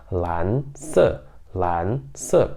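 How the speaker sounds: "lan se" said smoothly; Mandarin lan se. Shown as a demonstration. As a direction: model "lan se". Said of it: "se você falar mais rápido". ("lan se" com naturalidade)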